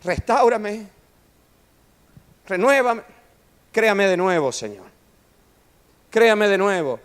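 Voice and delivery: high, loud pleading prayer; David pleading. Acted. David crying out to the Lord, high and loud imploring. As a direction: beg to be made new. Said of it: "¿Y qué dice David?".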